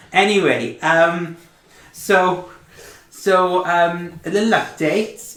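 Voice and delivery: lightly voiced chipper elf; letter-writing NPC. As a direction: read it like a chatty elf writing home. GM reads NPC's letter aloud.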